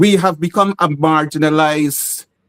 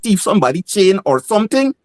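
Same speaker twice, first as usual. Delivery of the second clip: lightly voiced mocking Creole, pitched up; Guyanese creole quote; 4 semitones higher than usual. Indian guy on Facebook mocking his post, in a light creole voice. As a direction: mimic the suspicious onlooker in creole, a touch higher. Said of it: "some Indian guy said".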